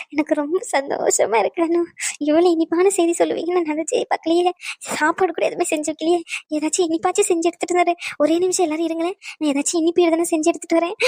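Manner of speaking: overjoyed, tearful voice; happy tears. Acted. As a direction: gush through tears of joy. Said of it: "ஏன் சம்மந்தி அழுவுறீங்க". (ஆனந்தக் கண்ணீரோடு பேசும் குரல்)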